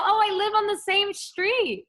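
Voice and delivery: put-on high, loud sweet girly voice; teasing her brother in a high put-on girly voice. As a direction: play the sweet catfish girl luring him. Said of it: "and then I go".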